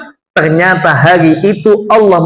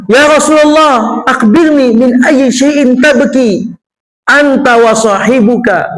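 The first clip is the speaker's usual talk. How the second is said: Umar pleading; 4 semitones higher, much slower than usual. Acted. Voicing Umar questioning the Prophet.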